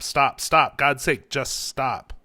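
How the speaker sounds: loud, high, urgent repeated stop; shouting stop. A narrator's reading. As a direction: yell at her to cut the engine. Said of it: "Cal was shouting at her to stop".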